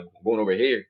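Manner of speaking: mimicked Spanish-neighborhood talk, a bit loud; match the Spanish dude's accent. Answering a Spanish dude, put-on Spanish-neighborhood accent. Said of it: "if I get around a Spanish dude".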